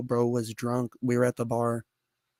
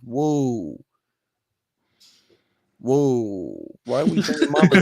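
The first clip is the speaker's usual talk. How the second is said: offended homie; 3 dB louder, slower than usual. Retold or imitated. Acted offended reaction to insult.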